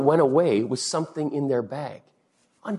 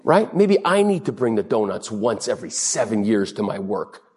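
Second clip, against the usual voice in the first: normal talking voice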